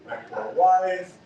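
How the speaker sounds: mock pity-party whine, drawn out; self-pitying. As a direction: wallow in exaggerated self-pity. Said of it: "a little bit of a pity party".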